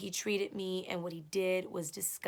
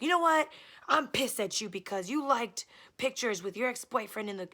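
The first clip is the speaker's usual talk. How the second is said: imitating him, loud and higher; mock angry boyfriend; 4 semitones higher, 6 dB louder than usual. Girlfriend imitating her angry boyfriend, loud and higher. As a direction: snap it out as the jealous boyfriend.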